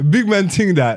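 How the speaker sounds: high-pitched London street echo; mock British accent. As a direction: parrot it in put-on British slang. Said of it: "the British niggas".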